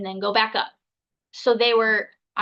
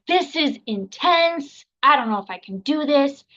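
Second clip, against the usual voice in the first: retold freak-out; 4 semitones higher than usual. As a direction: mildly act out freaking out in labor. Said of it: "freaking out".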